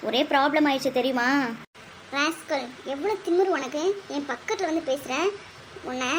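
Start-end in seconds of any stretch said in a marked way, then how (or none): 2.1-6.1 quiet ghostly warning; a possessed girl snarling softly. Acted. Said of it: "பேய் பிடிச்சிச்சுன்னு நினைக்கிறேன்".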